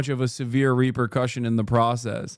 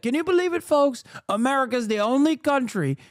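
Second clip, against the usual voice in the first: mock rally speech; 8 semitones higher than usual. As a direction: overblown campaign oratory, dragged out and high. Impersonating Trump's rally voice.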